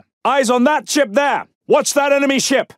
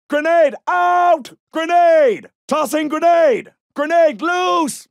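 grenade warning shout; 4 semitones higher, much slower than usual. Acted. Soldier warns of thrown grenade.

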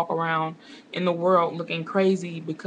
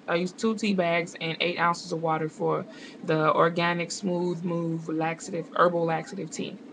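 infomercial voice. Real, not acted. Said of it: "That sounded like a bad infomercial".

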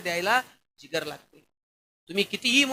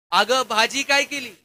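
shouting in her ear; 2 semitones higher, 6 dB louder, slower than usual. Retold or imitated. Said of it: "जोरात कानात ओरडला".

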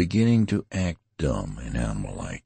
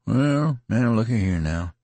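rambling idiot fashion; 8 semitones higher, 3 dB louder than usual. A narrator's reading. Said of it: "rambling in an idiot fashion".

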